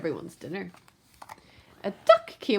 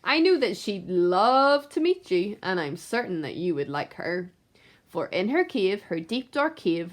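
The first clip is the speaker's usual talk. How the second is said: sly duck. Acted. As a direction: coax him along. Duck tempts the rat.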